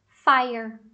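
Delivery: "Fire" said FAI-er; AI diphthong. Shown as a demonstration. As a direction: demonstrate "Fire" with a clear AI sound. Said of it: "qual que tem o A I". ("Fire" com ditongo AI)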